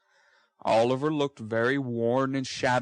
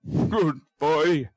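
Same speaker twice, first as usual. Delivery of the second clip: firm, louder; stoutly; 4 semitones higher, 5 dB louder than usual. Acted. Brownlow praises the boy stoutly. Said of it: "said Mister Brownlow stoutly".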